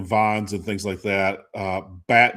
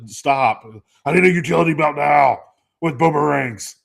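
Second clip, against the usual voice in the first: mocking wife; 5 semitones higher, 6 dB louder than usual. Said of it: "She's like".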